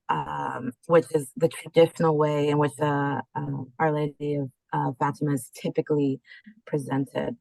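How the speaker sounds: muffled, turned away from the mic. Real, not acted. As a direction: speak with your head turned aside. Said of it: "your speech is muffled a lot".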